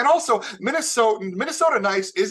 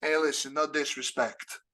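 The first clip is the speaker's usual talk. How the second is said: lightly blunt New Yorker; New York talk; 3 semitones lower than usual. Retold or imitated. New Yorker warning before an insult, light Queens edge. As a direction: give it a touch of Queens attitude. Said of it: "we start sentences off with things like".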